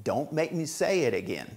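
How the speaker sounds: each word clear and steady; slow model phrase. Shown as a demonstration. Teacher models the phrase slowly for students. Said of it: "Así lo vas a decir en inglés".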